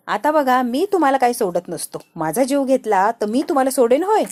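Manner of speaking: angry threat. Acted. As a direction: bark the threat at them. Minister threatens couple in rage. (संतापून मोठ्याने दिलेली धमकी)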